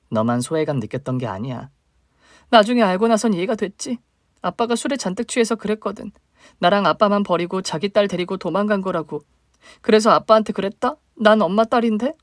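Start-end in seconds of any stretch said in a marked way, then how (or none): 2.5-12.1 higher, plaintive younger sister. Acted. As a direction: voice the hurt little sister reaching up.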